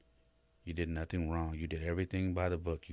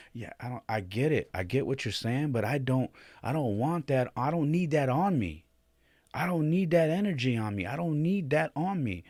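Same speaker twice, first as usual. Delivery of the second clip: higher and louder, pleading through tears; choked-up plea; 8 semitones higher, 6 dB louder than usual. Retold or imitated. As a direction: push back on the reassurance, voice cracking with upset. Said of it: "I was tearing up".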